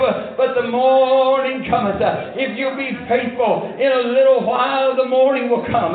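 forceful, emphatic pulpit delivery; fervent preaching. Real, not acted. Preacher declaring what morning means, fervent preaching. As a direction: drive each declaration home like a revival preacher.

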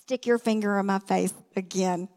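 mock angry warning, teeth clenched; through gritted teeth. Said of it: "through gritted teeth".

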